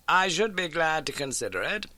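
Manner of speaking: crisp, keen detective laying out facts; Holmes voice. Acted. Holmes briskly telling Watson of the old case.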